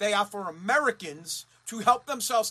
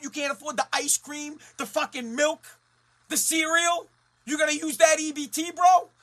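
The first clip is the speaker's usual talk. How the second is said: angry rant; 4 semitones higher than usual. Retold or imitated. Ranting at the guy in line.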